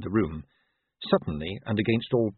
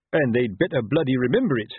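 snapping; 4 semitones higher, 4 dB louder than usual. Acted. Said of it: "Colon snapped".

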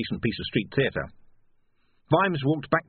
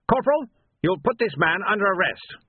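haughty captain; 9 semitones higher, 4 dB louder than usual. A narrator's reading. Captain voiced ordering the corporal.

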